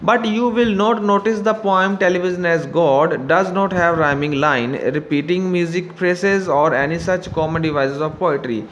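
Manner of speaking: slow, careful reading of the instruction; slow textbook reading. Acted. Teacher reading the book to students, slow and careful. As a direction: read it out slowly for the class. Reads textbook text aloud.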